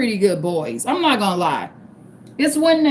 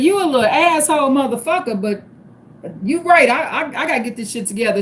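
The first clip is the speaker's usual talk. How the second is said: retold outburst; faster than usual. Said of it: "I said".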